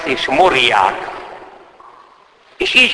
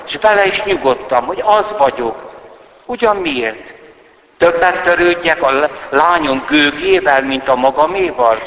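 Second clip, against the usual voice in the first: put-on a lightly raised, aggrieved old countess; countess's bitter complaint; 5 semitones higher, 3 dB louder than usual. The countess pours out her grievances to the priest, lightly raised and aggrieved. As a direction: let the countess's old hurt spill over.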